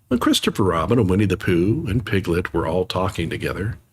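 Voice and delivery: gentle read-aloud storytelling; reading Pooh to children; story narration. A narrator's reading. Reads story aloud to viewers.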